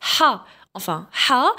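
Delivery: "ح" said as "ḥa" with a pharyngeal h; teacher showing H read as "ح"; H as Arabic ḥa. Shown as a demonstration. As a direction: sound out "ح" as the Arabic throat h plus a. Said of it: "ننطقوه".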